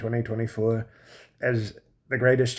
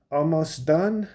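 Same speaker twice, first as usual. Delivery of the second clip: higher-pitched mock European accent; wife's foreign accent; 5 semitones higher, slower than usual. Wife speaks to husband in bed, mock foreign accent. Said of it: "the accent doesn't go away".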